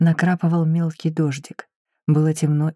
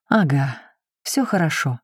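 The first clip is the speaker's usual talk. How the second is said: soft exclamation. Acted. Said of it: "негромко воскликнула Ри".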